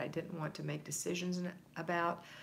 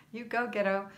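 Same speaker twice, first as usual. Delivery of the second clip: put-on "ghetto" for girl in a joking Scottish accent, louder; mock Scottish accent; 5 semitones higher, 6 dB louder than usual. Host teasing a viewer in a mock Scottish accent. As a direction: tease it out in a mock Scottish brogue. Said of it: "say girl with a Scottish accent".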